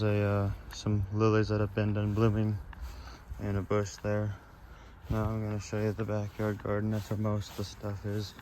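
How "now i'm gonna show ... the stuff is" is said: out of breath. Real, not acted. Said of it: "sorry, I'm out of breath".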